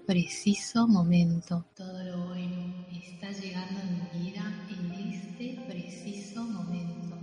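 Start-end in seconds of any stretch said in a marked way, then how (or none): 1.8-7.2 voz lejana y muy tenue; eco de fondo. Acted. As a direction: repite la afirmación como un eco distante. Afirmación repetida como eco de fondo. (eco suave y lejano)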